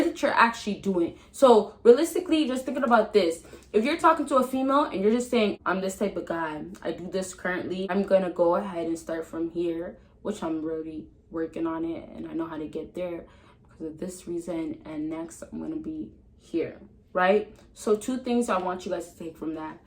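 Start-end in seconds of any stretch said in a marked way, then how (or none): 5.7-16.8 calm, relaxed and softer, not aggressive; mellow calm tone. Shown as a demonstration. Giving advice to fellas, demoing a mellow, relaxing voice. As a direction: ease into it like a relaxed man. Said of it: "I just said it in a mellow tone".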